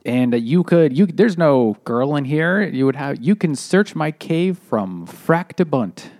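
a hint of a clumsy giant; dopey cartoon bellow. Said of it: "the giant speaks really strangely".

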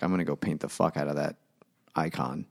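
a hint of a deep Russian priest; lightly voiced foghorn-deep Russian, understated; comically deep Russian voice. Priest vowing to paint, in a mock deep Russian voice. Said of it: "speak in a comically deep Russian voice".

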